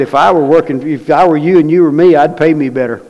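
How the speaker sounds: half-shouted grievance at God; complaining to God. Retold or imitated. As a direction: retell the gripe with heat. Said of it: "cried and complained to God".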